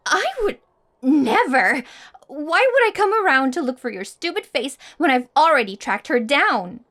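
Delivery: loud, fast indignant denial, hitting never hard; indignant outburst. Acted. Jealous rival to the boy she likes: loud indignant denial. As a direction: snap back, offended he'd even suggest it. Accused of looking for him.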